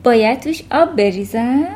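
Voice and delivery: a teacher half-amused, smiling through the question; faint smile. A narrator's reading. Miss Honey humours Matilda with a faint smile. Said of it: "با لبخند خفیفی پرسید".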